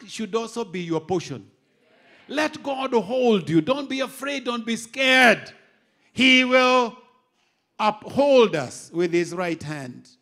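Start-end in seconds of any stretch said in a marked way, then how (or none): 2.3-10.1 loud, slow preacher's declaration; forceful preaching. Acted. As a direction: proclaim it slowly over the congregation.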